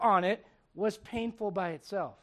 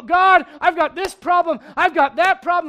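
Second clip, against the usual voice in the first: mock complaining prayer; 6 semitones higher, 13 dB louder than usual. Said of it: "we go".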